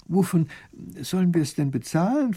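ordinary delivery, nothing marked

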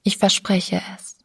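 tonlos gehauchtes Versprechen; leise geflüstert. A narrator's reading. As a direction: kaum hörbar zusagen. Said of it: "sagte sie leise". (Sabine flüstert ihr Versprechen ohne Stimme)

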